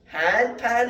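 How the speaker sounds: high loud questioning hand pan; mocking question. Philosopher confusing Spanish bakers, high loud question. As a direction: wind them up with a question.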